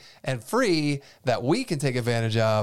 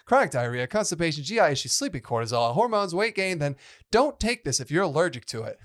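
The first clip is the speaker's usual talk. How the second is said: drug commercial voice; 4 semitones higher than usual. Pretend. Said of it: "say this like a commercial for drugs".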